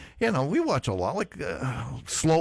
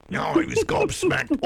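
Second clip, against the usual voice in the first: much higher, slow British voice; mock English accent; 3 dB louder than usual. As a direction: ham up the English accent, slowly. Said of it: "my English accent".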